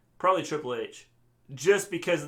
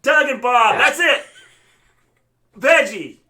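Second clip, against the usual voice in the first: loud, higher-pitched delight; triumphant, with a laugh creeping in; excited; 8 semitones higher, 12 dB louder than usual. Real, not acted. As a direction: proudly proclaim it at full voice. Celebrating the impression being recognised.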